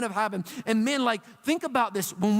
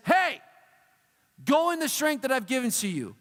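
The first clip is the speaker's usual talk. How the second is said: big commanding voice, pitched up; lightly acted divine command with a higher, punched opening; God; 4 semitones higher than usual. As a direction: command firmly, calling for attention first. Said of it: "God got his big voice on".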